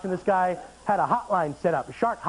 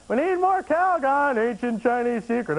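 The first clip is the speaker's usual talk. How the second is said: mock Chinese accent; 3 semitones higher than usual. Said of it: "Chinese husband".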